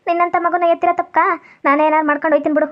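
put-on weepy begging; a mother's mild, overacted crying to win him over; tearful pleading. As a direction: plead as if close to tears. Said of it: "ನೀನು ಅಳ್ಬೇಡ ಕಣವ್ವ".

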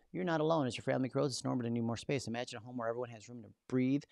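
upbeat real-estate ad read. Acted. Host reading the generated reel script as an ad. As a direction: sell it like a local commercial.

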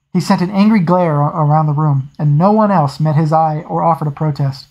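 steady audiobook reading voice; story narration. A narrator's reading. Reader narrating a naval scene for listeners, steady storytelling. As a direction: read the novel to your listeners. Reads novel aloud.

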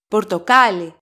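Πορτοκάλι stressed on the second-last syllable, κά. Shown as a demonstration. Greek teacher demonstrates where the accent goes, Πορτοκάλι stressed on κά. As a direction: lean on κά in Πορτοκάλι. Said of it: "Second syllable from the last".

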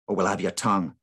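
gruff, menacing warning; gruff threat. Acted. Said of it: "a gruffer voice instructed".

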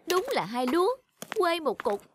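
scornful laughing jab; mocking laugh. Mocking brother as country bumpkin.

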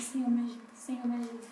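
soft, hushed plea under the breath; quiet prayer. Retold or imitated. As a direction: pray quietly so no one nearby hears. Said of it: "Quando eu tava ali sentada".

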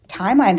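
timeline said with the weight on it and a falling tune; stress on timeline. Shown as a demonstration. Vlogger to viewers, stressing the word timeline. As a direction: lean into timeline, then let it fall. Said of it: "I'm gonna emphasize the word timeline".

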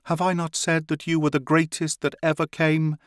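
high, excited proclamation; priestess cries out. A narrator's reading. Priestess marvelling at the two who enter her chamber, high excited cry. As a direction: cry it out in awe at the newcomers. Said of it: "cried the priestess".

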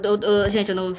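normal talking voice

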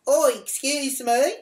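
high, loud, drawn-out call; emphatic retold holler, slow and high. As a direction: call again, stretching it out for someone ignoring you. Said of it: "I yelled out".

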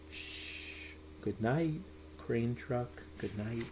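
soft lullaby whisper; hushed goodnight. Acted. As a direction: hush it like a sleeping child is near. Bedtime refrain hushed to sleep.

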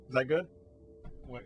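usual speaking voice

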